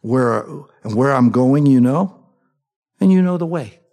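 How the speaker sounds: calm, even, plain statement of fact; just state it, no fuss; matter-of-fact Jesus, said simply. Retold or imitated. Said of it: "He says it so matter-of-factly".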